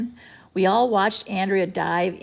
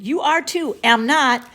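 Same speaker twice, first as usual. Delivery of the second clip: put-on childish bickering; 5 semitones higher, 7 dB louder than usual. A narrator's reading. Back-and-forth argument.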